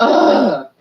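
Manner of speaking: loud, high groan of disgust; exasperated groan. Retold or imitated. Sister reacting to her carried sibling, exasperated. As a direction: groan it out, mock-appalled.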